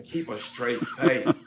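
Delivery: slow, stifled laugh through the words; fighting back a laugh. Real, not acted.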